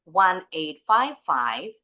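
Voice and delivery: slow "one eight five five", lifted on the last "five"; rising intonation. Shown as a demonstration. Teacher modelling an unfinished phone number, rising intonation. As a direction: keep "one eight five five" open, going up at the end. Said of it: "intonasinya naik".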